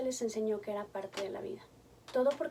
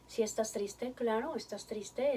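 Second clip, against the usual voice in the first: autoconsuelo suave; 4 dB quieter, slower than usual. Shown as a demonstration. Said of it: "podamos decirnos a nosotros mismos".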